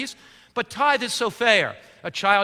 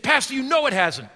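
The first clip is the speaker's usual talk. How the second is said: man conceding; 6 semitones higher than usual. Retold or imitated. Pastor voices the man conceding.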